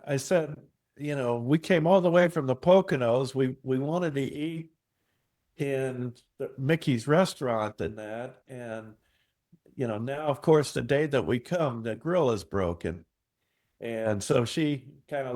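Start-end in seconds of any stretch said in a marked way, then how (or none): 1.4-13.0 pitched-up mock complaint; hammed-up grumble, higher as it goes; escalating comedy rant. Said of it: "escalating comedy rant".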